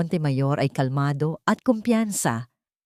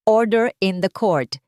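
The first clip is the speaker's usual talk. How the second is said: stern order; 4 dB louder than usual. Acted. Judge bangs gavel, orders.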